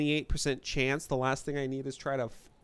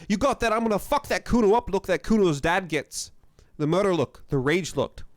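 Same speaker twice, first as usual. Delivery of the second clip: put-on kid voice; 5 semitones higher, 5 dB louder than usual. Kid voice taunting.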